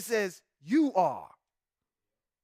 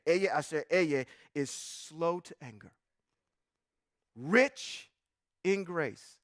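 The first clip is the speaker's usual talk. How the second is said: read slow again; 4 semitones lower, slower than usual. Shown as a demonstration. Pastor rereading slowly so the congregation reacts. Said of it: "so I'm gonna do it one more time".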